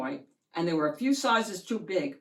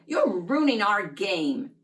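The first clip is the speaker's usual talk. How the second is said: annoyed sister; 6 dB louder than usual. Acted. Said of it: "Sally yelled".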